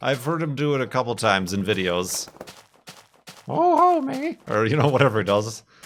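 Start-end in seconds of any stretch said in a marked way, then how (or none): 3.5-4.4 badly done, very high, slightly louder cartoon voice. Imitating how another person does a bad Marge voice. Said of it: "Beef does a really bad Marge".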